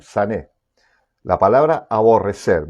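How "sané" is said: sané with the weight on the last syllable, the é; sané, accented on its closing é; stress on final E. Shown as a demonstration. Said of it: "con acento en la E final".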